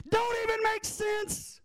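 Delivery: high, scoffing disbelief; incredulous. Real, not acted. Preacher mocking the logic.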